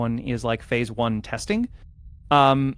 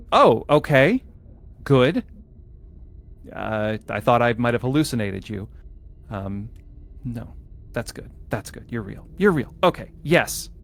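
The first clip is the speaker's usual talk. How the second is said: a lightly voiced relieved AI on the intercom. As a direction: play the facility computer, startled then eager.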